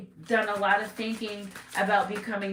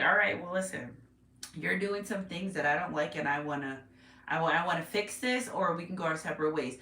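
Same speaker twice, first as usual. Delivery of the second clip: lower, level acted ultimatum; calm, measured partner; 4 semitones lower than usual. Reader plays the partner who wants to fix this, calm and measured. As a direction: lay it out calmly, voice dropped.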